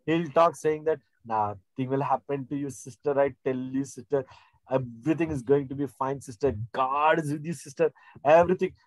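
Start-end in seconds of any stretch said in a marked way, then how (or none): 1.2-8.7 reassuring pastor. Retold or imitated. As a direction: gently promise her all will be fine. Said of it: "How Pastor Sumit talks?".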